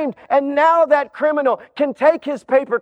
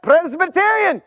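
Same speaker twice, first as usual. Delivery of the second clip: examiner; 5 semitones higher than usual. Acted. Examiner questions the man.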